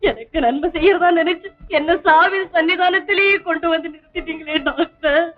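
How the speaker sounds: tearful, wounded protest; anguished reproach. Acted. Poorna accuses the doctor of deceiving her, anguished and tearful. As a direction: cry out at being betrayed.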